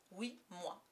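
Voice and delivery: dry short reply; curt. Acted. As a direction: clip it coldly. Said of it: "dit Peter sèchement".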